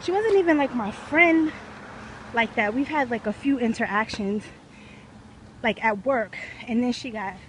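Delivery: breathing heavy from a hill climb; winded, puffing between words. Real, not acted. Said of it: "I'm sorry, y'all, if I'm breathing heavy".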